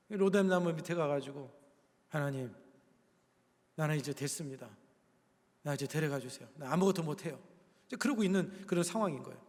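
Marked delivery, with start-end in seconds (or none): 2.1-7.4 low, soft prayer of giving up; drained, discouraged. Retold or imitated. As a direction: voice Elijah with the strength gone out of him. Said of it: "힘이 다 빠져가지고".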